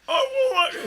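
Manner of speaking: put-on squeaky laughing accent try; laughing accent attempt. Mock accent for his cohost, breaking into laughter. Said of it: "it's like you're crying".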